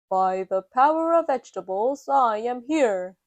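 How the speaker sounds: proud vegetable hero cry; Super Potato shouting. Acted. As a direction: announce yourself like a brave superhero. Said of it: "shouts Super Potato".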